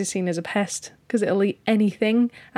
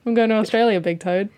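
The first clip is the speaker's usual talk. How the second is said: put-on Australian accent. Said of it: "Why did you say that in an Australian accent?".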